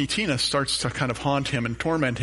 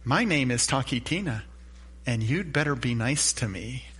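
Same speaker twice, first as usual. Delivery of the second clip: robotic doll voice. Retold or imitated. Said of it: "she says in her robotic voice".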